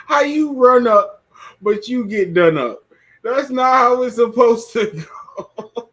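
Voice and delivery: loud, incredulous laughing question; cracking up at how dumb it went; laughing disbelief. Real, not acted.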